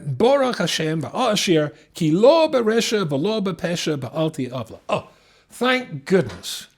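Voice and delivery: a hint of mock relief, slowed on thank goodness; relieved self-talk. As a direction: imitate someone comforting himself. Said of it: "the mistake of saying to themselves".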